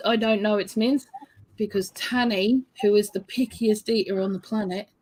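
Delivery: talking while chewing; words around a bite of food; mouth full. Real, not acted. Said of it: "What are you eating?".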